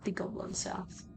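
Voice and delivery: half-whispered, ominous reveal; hushed place name. Acted. Game master naming the place they head to, hushed. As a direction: whisper it like a secret.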